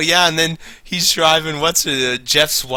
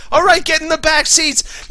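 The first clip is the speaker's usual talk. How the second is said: mild mock reply. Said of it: "dialogue retelling".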